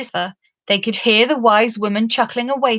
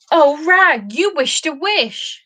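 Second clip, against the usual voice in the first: horrified; 7 semitones higher, 4 dB louder, slower than usual. A narrator's reading. Bobtail to Rag, horrified at the wasted wish. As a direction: cry "Oh, Rag" high and loud in horror. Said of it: "said Bobtail in horror".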